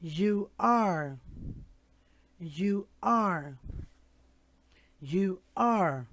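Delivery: "You are" said clearly, stress on "are"; pronunciation drill. Shown as a demonstration. Teacher drilling "You are" with the class. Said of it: "Now we're going to practice the pronunciation".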